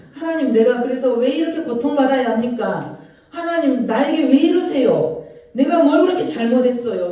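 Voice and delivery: Job's anguished protest. Acted. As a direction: cry out to God in protest. Voicing Job's complaint to God.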